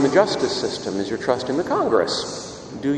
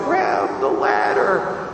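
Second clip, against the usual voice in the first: mock booming call; 4 semitones higher, much slower than usual. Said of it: "a great big voice cries out".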